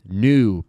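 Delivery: New said nu with a clear u; oo sound. Shown as a demonstration. Teacher showing the EW sound in new. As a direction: round it into oo. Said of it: "a gente foi mais pra U".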